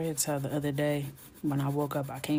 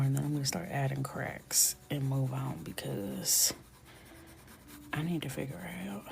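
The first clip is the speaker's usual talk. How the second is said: whispered commentary. Real, not acted. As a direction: whisper through the process, unhurried.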